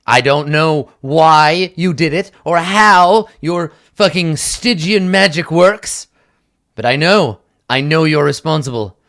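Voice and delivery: slow, deliberate menace; lightly voiced angry guard; threatening accusation.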